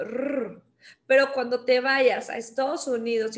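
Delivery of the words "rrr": "rrr" as a long rolled R; trilled R. Shown as a demonstration. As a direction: roll out "rrr" the Mexican way. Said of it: "tenemos este sonido en México". ("rrr", erre vibrante mexicana)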